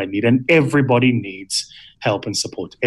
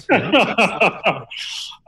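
evil chuckle; 9 semitones higher than usual. Real, not acted. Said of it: "that's a Bond villain laugh".

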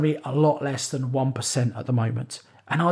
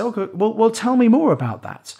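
imitated investor; 6 semitones higher, 4 dB louder than usual. Investor quoted by coach.

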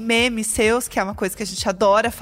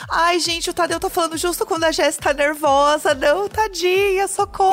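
higher, mock-pitying cry; pitying housemates; 5 semitones higher than usual. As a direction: imitate housemates fussing over the poor girl. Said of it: "e aí todo mundo falou assim".

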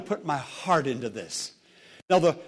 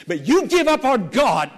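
higher, raised pulpit voice; fervent admonition; forceful warning; 4 semitones higher, 4 dB louder than usual. Real, not acted. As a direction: warn them with urgency. Preacher warns congregation.

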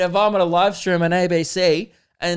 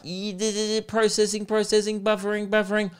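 higher, mock computer loading up; robotic processing noises; 3 semitones higher than usual. Mocking himself as a computer still processing. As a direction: stutter like a machine buffering. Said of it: "I was like".

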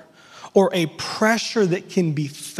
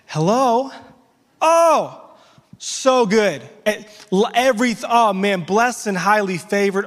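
fake cheerful; 3 semitones higher than usual. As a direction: switch to fake cheer for the caller. Answering phone, fake cheer.

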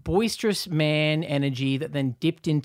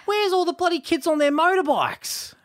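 boisterous man. Retold or imitated. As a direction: bluster to cover the awkwardness. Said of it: "and he goes".

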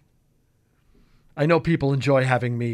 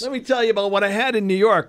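Sam Darnold; 5 semitones higher than usual. Acted. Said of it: "Sam Darnold press conference".

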